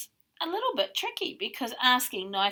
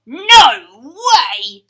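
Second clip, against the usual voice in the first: shouted refusal in a put-on grocer voice; defiant shout; 19 dB louder than usual. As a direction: yell back no way, defiant.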